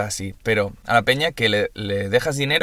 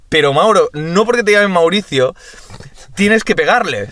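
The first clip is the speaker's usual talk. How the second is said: higher, louder scolding father; exasperated dad; 7 semitones higher, 4 dB louder than usual. Retold or imitated. Father scolds cousin Mauro, raised and exasperated. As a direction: scold the boy in disbelief. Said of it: "Y mi padre".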